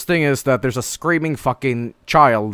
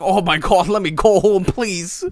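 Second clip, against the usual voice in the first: high-pitched mock shivering plea; 4 semitones higher than usual. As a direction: imitate pleading to go home while freezing. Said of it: "like, shivering".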